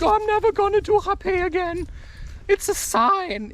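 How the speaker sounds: high-pitched, rushed mock lament; put-on high-voiced complaint; mock dramatic thinking. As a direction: overdo the dismayed conclusion in a high voice. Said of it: "and I think".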